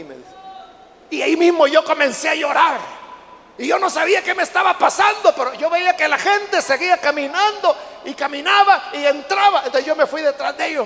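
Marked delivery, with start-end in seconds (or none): 1.1-10.9 loud, high, fervent retelling; preacher's fervour rising; emotional outpouring. Retold or imitated. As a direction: swept up, near shouting with feeling. Retelling convert's weeping arrival.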